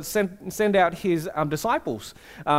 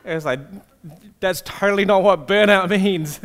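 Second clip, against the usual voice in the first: incredulous, laughing, building louder; can't believe it, laughing; laughing disbelief; 3 dB louder than usual. Retold or imitated. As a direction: pastor laughing at intern's burnout excuse. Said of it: "And I was like".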